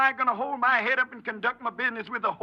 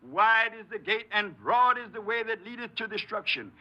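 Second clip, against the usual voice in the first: quoting scripture. Acted. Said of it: "That's what the scripture says".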